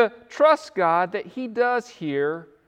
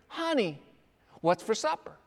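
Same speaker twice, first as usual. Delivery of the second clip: soft murmur close to the ear; whisper; 7 dB quieter than usual. Shown as a demonstration. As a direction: lean in and say it quietly, as if into an ear. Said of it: "whisper into her ear".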